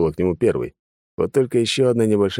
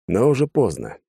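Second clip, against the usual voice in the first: usual speaking voice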